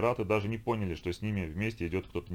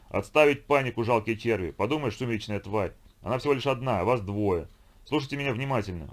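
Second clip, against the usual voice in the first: domineering chieftain, raised and higher; commanding konung; 3 semitones higher, 4 dB louder than usual. Acted. Konung commands panicking vikings over the infocom, domineering. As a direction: bark orders down the radio.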